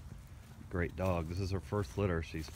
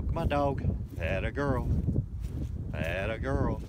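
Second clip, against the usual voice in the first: calling the dog; 5 semitones higher, 4 dB louder, slower than usual. Real, not acted.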